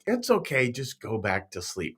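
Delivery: softly soothing, easing down at the end; imitated tender parent; loving parent. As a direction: reassure a child with a lot of love. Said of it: "parents say that with a lot of love".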